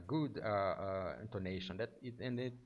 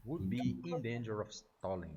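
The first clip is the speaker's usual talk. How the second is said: stepped cadence. Shown as a demonstration. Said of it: "You add a slightly, uh, stepping".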